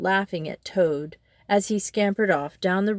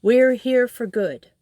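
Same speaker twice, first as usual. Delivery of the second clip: boasting; 6 semitones higher, 7 dB louder than usual. A narrator's reading. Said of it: "boasting to everyone".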